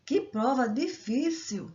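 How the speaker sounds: slow, lengthened "Que prova difícil!"; slightly prolonged exclamation. Shown as a demonstration. Teacher showing students the tone of voice, "Que prova difícil!" slightly prolonged. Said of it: "Prolonguei um pouco".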